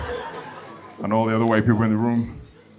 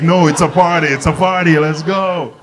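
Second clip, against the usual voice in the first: party hype; 4 semitones higher, 3 dB louder than usual. Acted. Hyping the plane as party.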